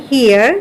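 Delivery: হিয়ার with an "ee" glide into r; here with EE. Shown as a demonstration. Teacher contrasts here with there, হিয়ার on ee glide. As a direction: say হিয়ার starting on a clear ee. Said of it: "কিন্তু উচ্চারণ কেমন দেখো".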